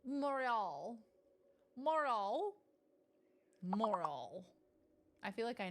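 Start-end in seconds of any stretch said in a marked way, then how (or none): 0.1-1.0 "Montreal" with a French accent. Shown as a demonstration. Streamer showing off a favorite word, French accent. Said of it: "say is Montreal in a French accent". 1.8-4.4 "Montreal" in a put-on French accent. Shown as a demonstration. Streamer trying to nail the word, French accent. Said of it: "say is Montreal in a French accent".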